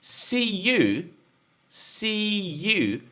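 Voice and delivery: "See you" with a gliding "ya" linking, not a J; "See you" with a y sound. Shown as a demonstration. Teacher modelling "See you" for students. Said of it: "o som do J? Ya, ya".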